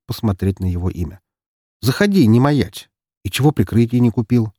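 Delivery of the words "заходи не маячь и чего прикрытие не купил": calling out. Acted. Stranger urges him inside.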